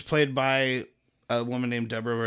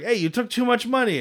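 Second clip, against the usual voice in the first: imitating the complaint; 10 semitones higher than usual. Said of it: "he's like".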